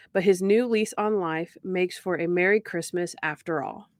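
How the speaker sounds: measured, evenly read episode summary; recap narration. Shown as a demonstration. Podcast host reading the episode recap to listeners, measured narration. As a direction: narrate the plot like a synopsis.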